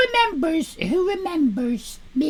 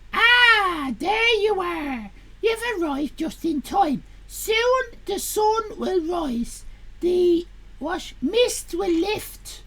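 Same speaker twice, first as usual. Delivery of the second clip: slow, lightly mysterious reading; Misty narrator voice; slower than usual. Acted. Lightly voiced Misty welcoming the reader, slow. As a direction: draw the reader in like a hostess. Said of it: "My name is Misty".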